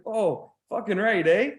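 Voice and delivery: high, slow Canadian drawl; Canadian trucker. Retold or imitated. Trucker noticing his own flag tattoo, slow Canadian drawl. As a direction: imitate a delighted Canadian trucker. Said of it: "Literally just like that".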